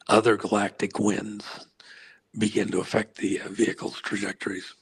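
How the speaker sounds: hoarse, worn-out voice losing strength. Real, not acted. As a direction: speak with a tired, failing voice. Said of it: "I'm losing my voice".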